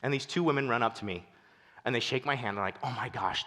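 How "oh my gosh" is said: tag. Retold or imitated. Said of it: "tears streaming down their face".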